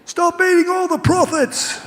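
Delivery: slow, high heckling yell; big booming voice. Retold or imitated. Fan heckling the heavier player, booming drawn-out yell. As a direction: holler the jibe slowly across the ground. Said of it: "this big booming voice".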